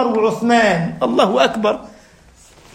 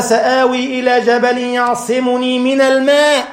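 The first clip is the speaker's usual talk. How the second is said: Quranic recitation; 2 semitones higher, slower than usual. Acted. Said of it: "قال".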